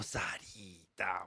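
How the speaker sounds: low, soft, slow little mumble; timid slip. Retold or imitated. Reporter sheepishly repeating the wrong name, soft and slow. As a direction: say it sheepishly under your breath.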